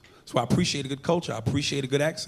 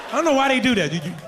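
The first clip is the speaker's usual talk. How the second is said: lightly put-on African accent; African husband; 3 semitones higher than usual. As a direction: order your wife about in an African accent. Comic imitates African husband ordering wife.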